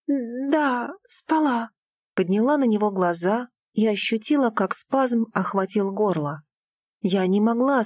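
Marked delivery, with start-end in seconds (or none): 0.1-1.7 higher, breaking, a little crying; tearful. Acted. Daughter to father, close to crying.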